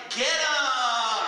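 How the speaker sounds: high, loud laughing cheer; cheering shout. Retold or imitated. Front row fans rallying against the drunk, loud high shout. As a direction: egg them on with a whoop. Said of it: "they were like".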